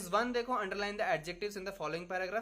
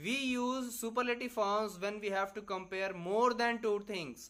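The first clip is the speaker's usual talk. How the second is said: reads the definition out very slowly, word by word; dictating a definition for students to copy; slow dictation reading; 2 semitones higher, much slower than usual. Acted. Teacher dictates a rule to students, slow and deliberate.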